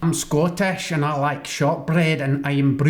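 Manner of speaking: confident mock Scottish accent. Shown as a demonstration. Second guest showing off a convincing Scottish accent. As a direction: roll out the line in a full Scottish brogue. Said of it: "that was really good".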